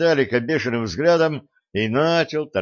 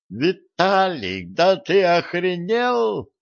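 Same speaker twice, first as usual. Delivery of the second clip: higher, slow, outraged cry; indignant yell; 8 semitones higher, slower than usual. A narrator's reading. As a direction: yell it in disbelief. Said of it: "завопили Гордон с Василисой".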